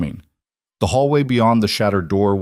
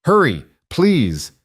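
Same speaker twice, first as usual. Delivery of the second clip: high, slow desperate scream; 7 semitones higher, slower than usual. A narrator's reading. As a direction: scream it into the phone. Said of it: "She screamed into the phone".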